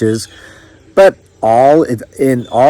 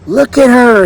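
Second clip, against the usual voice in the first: scornful mama; 10 semitones higher, 3 dB louder than usual. A narrator's reading. Mother scorns the stranger.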